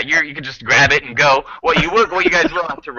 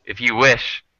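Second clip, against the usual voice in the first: higher, deliberate owl voice with pauses; menacing owl; 4 semitones higher than usual. Acted. Owl demands raw materials from travelers, courteously menacing. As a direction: state the terms with courteous menace.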